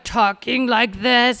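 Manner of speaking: slow possessed voice; possessed woman. Retold or imitated. Teller mimics the possessed lady in labor, slow possessed voice. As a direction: drag it out as if possessed. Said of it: "she got possessed".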